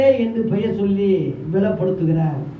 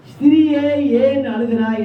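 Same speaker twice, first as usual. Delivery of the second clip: slow, raised voice of Jesus addressing a woman; Jesus questioning; 4 semitones higher than usual. Acted. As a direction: ask it slowly, pitched up, as Jesus. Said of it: "என்றார்".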